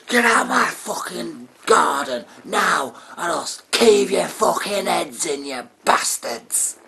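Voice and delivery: high shouted threat; furious shout. Acted. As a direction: scream them out of the garden. Neighbour swings bat, yelling.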